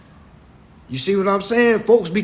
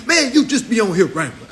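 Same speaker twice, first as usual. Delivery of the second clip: mocking quote; 4 semitones higher than usual. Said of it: "folks be like".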